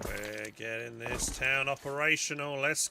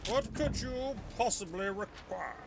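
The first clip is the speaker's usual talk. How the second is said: echoing the game line in a higher, put-on British accent; mock British accent; 6 semitones higher than usual. Streamer mimics the game character's line in a mock British accent. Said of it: "It sounds so British".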